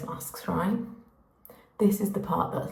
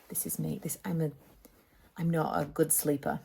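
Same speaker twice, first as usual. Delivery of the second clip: sheepish aside; 2 semitones lower, 5 dB quieter than usual. Real, not acted. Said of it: "embarrassed confession aside".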